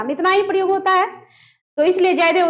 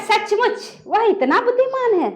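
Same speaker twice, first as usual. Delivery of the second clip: higher, slow सचमुच, then a break; pause after सचमुच; 5 semitones higher than usual. Shown as a demonstration. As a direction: set सचमुच apart before the rest. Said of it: "कैसे बोलेंगे?". (सचमुच के बाद विराम)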